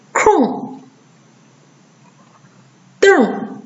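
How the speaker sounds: 空, 瞪 high falling, ng melted into nasal r; nasalised erhua. Shown as a demonstration. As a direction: model 空 and 瞪 with r-coloured nasal vowel. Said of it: "鼻化变成后鼻音读起来".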